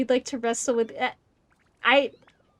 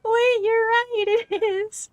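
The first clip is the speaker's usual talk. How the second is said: high, loud, slow dawning surprise; surprised realization; 11 semitones higher, 6 dB louder, slower than usual. Real, not acted. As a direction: it just clicked, draw it out. Sudden realization during game.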